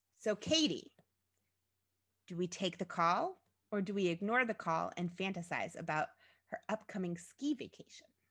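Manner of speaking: normal talking voice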